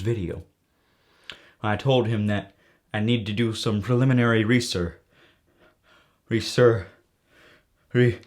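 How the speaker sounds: a touch of hard-boiled detective narration; lightly voiced noir gumshoe, measured delivery; film noir private eye. Detective recounting a phone call to the audience, film noir private eye. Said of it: "That was a little character".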